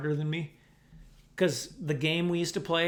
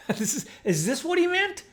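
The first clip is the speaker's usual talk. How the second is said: dog's inner voice; 10 semitones higher, 6 dB louder than usual. Retold or imitated. Voicing the dog's realisation.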